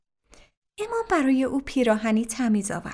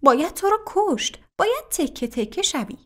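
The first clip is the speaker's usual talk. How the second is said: mild mock yell, higher; a hint of a furious threat; a third man threatens the homeowner, mild yell; 6 semitones higher than usual. A narrator's reading. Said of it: "داد زد".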